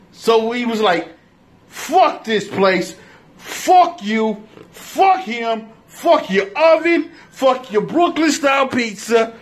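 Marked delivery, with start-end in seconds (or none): 1.7-9.3 angry. Retold or imitated. Storming out of the pizza shop.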